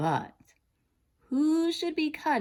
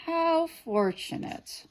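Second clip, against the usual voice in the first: smirking; 11 semitones higher, slower than usual. A narrator's reading.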